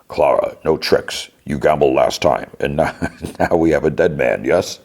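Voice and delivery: lightly voiced film hero, measured delivery; a hint of an actor impression, slipping into a laugh; Idris Elba. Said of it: "my Idris Elba sounds like that this week".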